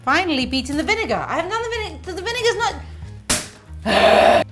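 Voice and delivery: slurred, laughing mix-up. Real, not acted. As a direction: giggle tipsily over the words. Tipsy baker tangled in words.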